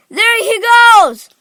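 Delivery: high, drawn-out, loud call; shouting. A narrator's reading. Onlooker spotting Augustus in the pipe, shouting. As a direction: call out for all to see. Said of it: "somebody shouted".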